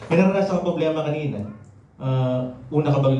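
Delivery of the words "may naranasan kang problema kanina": fast, slightly breathless repeat; quick repeat. Real, not acted. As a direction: rush the line again while catching your breath. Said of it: "medyo hinihingal ako".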